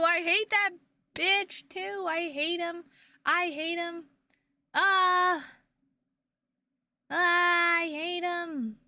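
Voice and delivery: high, loud frustrated outburst; frustrated rant. Real, not acted. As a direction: vent your hatred of the boss. Raging about a game boss.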